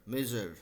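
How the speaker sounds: मेजर said as mezhur with a zh; soft zh sound. Shown as a demonstration. Teacher modelling the right pronunciation for the class. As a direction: blend ज and स in मेजर. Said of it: "ज और स मिला के मेजर".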